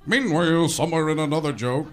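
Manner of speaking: restrained announcer cut-in. Acted. Announcer cutting to another joke, toned-down delivery. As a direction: announce it at an ordinary volume. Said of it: "that guy would come in and go".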